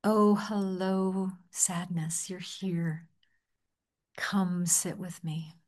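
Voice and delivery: slow, gentle greeting that fades to a whisper; welcoming voice. Shown as a demonstration. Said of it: "in a welcoming voice".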